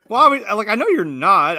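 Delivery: high, loud imitation of a mother; backtracking mom. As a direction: hurriedly take it back as the mom.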